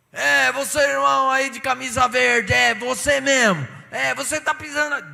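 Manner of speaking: single out a man from the pulpit; humiliating pulpit scold. Retold or imitated. Harsh pastor scolds a man in the congregation. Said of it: "Chegava aqui assim".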